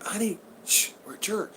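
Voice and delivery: soft, hushed mock shush in church; husband quietly shushing his wife in church, hushed; hushing husband. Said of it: "he's going".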